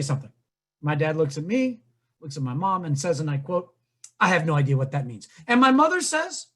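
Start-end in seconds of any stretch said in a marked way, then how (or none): 4.2-5.3 baffled dad. Retold or imitated. Dad quoted, baffled and low.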